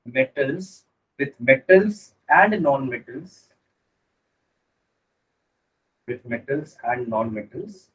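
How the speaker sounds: slow dictation for notes; dictating. Shown as a demonstration. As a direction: read it out slowly for writing down. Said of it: "तो लिखना है इसमें".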